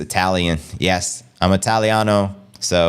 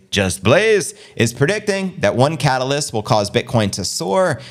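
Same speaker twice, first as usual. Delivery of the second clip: crypto news read-out; hyped-up show host reading the news. Acted. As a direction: read the headline story for the stream. Featured story news read.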